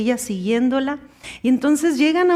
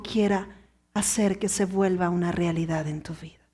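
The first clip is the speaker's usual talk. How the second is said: much lower, softer whisper; 8 semitones lower, 8 dB quieter than usual. Acted. Preacher warning his church, whispered. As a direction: warn them in a hush.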